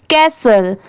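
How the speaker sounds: कैसल said alone with silent t; model for repeating. Shown as a demonstration. Teacher asking learners to repeat after her, model pronunciation. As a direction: give a clear two-syllable कैसल to copy. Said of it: "आप भी मेरे बाद repeat करिए".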